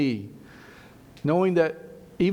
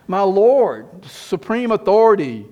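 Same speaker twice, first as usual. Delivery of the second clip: emphatic proclamation; 5 semitones higher, 8 dB louder, slower than usual. Real, not acted.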